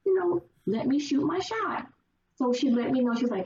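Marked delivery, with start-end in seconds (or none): 0.0-1.9 much higher, fast eager guy; playful imitation of a guy keen to try his luck. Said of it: "So he's like".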